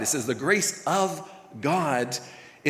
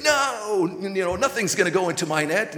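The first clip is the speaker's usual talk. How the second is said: emphatic mock goalie; 4 semitones higher, 3 dB louder than usual. Goalie voiced refusing goals.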